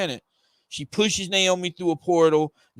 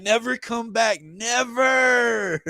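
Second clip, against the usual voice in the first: shouted threat; 6 semitones higher, much slower than usual. Acted. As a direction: drive him off with the final word. Naomi strikes Zumbadu.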